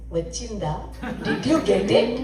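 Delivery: gentle, tender asking; a touch of sweet reassurance; sweetly. Retold or imitated. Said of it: "Swami very sweetly says".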